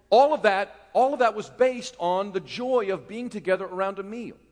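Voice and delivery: loud emphatic preaching. Real, not acted. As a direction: hit it hard for the congregation. Preacher raises voice.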